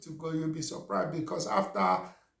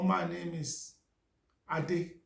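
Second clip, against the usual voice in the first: halting self-imitation, pause before the name; old strong accent; slower than usual. Shown as a demonstration. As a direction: stall before giving your name, as a hesitant English speaker. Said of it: "Let me try and imitate myself".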